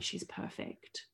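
slow, barely voiced reassurance; hushed reassurance. Midwives soothing the mother over a silent newborn, hushed. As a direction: murmur it very softly and slowly.

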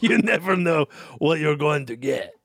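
cartoon-robber take on an Austrian accent; muddled Arnold accent through a chuckle; put-on, deliberate accent gone astray; botched Arnold accent. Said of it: "you're like a cartoon robber".

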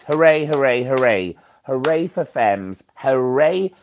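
loud rising cheers of hooray; cheering hooray. Real, not acted. Caller on the podcast cheering for femmes, loud and excited. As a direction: cheer it out like a chant.

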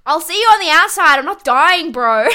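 hammed-up tough-guy goodbye; imitating Tim. Friend reassuring Jamie on leaving, loud mock bravado. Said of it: "And Tim says".

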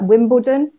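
"Wimbledon" with the L like a w, "Wimbewdon"; vocalised L. Shown as a demonstration. Linguist giving an example word, vocalised L in "Wimbledon". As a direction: soften the L in "Wimbledon" into a w-like vowel. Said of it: "the L could start to become kind of a bit like".

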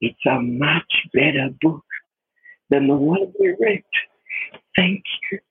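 slow, gentle reassurance; soothing a crying man, slow and gentle; said close in his ear. Retold or imitated. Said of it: "I said in his ear".

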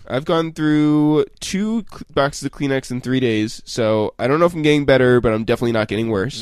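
stuffy, tired cold voice; sick voice. Real, not acted. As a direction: talk through a bad cold. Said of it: "I sound so sick".

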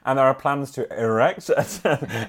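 measured village bulletin reading; local news read. Acted. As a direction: read out a parish news item. Reads local news item aloud.

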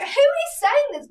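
high, loud questioning; a passenger looking around for the shouter; indignant demand. Retold or imitated. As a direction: demand who said it.

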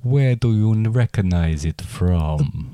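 slow, lightly put-on vampire; a touch of a creepy vampire asking. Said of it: "Do your vampire voice".

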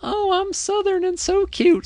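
mock a cutesy Southern girl; Southern accent. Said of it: "she leans into".

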